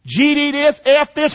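high mock cussing out; lightly replaying the curses at mama; a touch of angry teenage swearing; retold cussing. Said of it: "I cussed her out".

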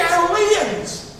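high, slow, stretched exclamation; astonished pulpit cry; exclaimed. Real, not acted. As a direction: marvel at the word. Preacher exclaims the word.

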